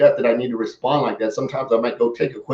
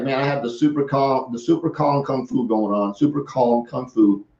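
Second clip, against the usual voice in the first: softer, very calm inner voice; super calm; 4 dB quieter than usual. Retold or imitated. Calm seller facing a pushy gentleman, softer and unbothered. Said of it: "And I was so calm".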